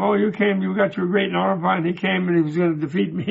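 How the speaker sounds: mildly mocking, run-on taunt; ridiculing. Debate rival taunts the speechless Naropa, lightly mocking. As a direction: lightly imitate a gloating rival. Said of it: "the guy was ridiculing him".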